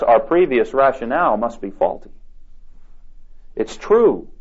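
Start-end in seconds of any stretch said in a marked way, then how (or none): none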